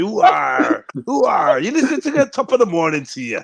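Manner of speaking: hammed-up West Country and Irish burr; mock Irish-Cornish accent. Local greeting the Londoners, mock Irish-Cornish accent. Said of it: "Irish, Cornwall".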